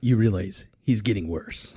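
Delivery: lightly voiced Chick, quiet; Chick impression. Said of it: "my Chick impression".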